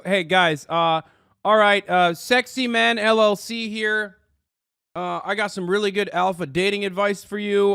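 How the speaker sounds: hammed-up YouTube guru voice; mock dating guru. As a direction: lampoon a cheesy alpha dating coach. Mocking a dating guru video.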